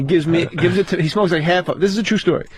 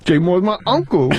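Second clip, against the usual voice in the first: Tracy voice. Retold or imitated.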